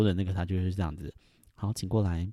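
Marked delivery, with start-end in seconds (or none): 1.5-2.3 polite. Retold or imitated. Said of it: "就是会很礼貌这样子".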